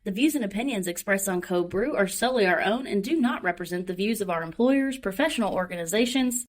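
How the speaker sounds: polished, announcement-style read; airline stewardess voice. Acted. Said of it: "That's my airline stewardess voice".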